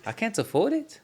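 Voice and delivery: high, questioning Scottish lady voice; Scottish accent. Retold or imitated. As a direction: imitate Martha's Scottish plea. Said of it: "Yeah, that's pretty good".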